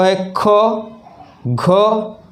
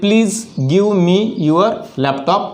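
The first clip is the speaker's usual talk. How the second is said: slow full form; much slower than usual. Shown as a demonstration. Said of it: "इन्हें contraction में बोलना है".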